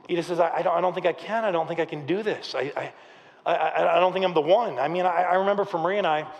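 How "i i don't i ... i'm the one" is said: mildly hesitant, stammered self-doubt; worried. Acted. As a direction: falter and restart as if doubting yourself. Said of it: "he's so worried about this".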